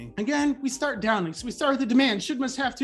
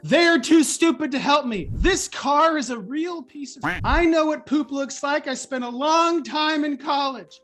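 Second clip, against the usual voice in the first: louder, indignant rant; hammed-up frustrated rant; mock ranting; 4 dB louder than usual. Shown as a demonstration. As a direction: blow off steam at everything. Labeling self-talk example.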